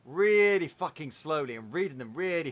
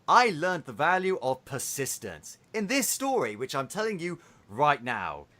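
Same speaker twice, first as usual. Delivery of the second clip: dreamy preschool princess. Retold or imitated. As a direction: talk to toddlers like a dreamy cartoon princess, making fun of it. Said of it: "They talk in this really dreamy".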